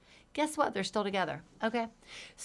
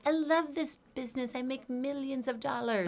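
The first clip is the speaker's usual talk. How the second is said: forced positivity; 7 semitones higher than usual. Retold or imitated. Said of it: "they can't be like".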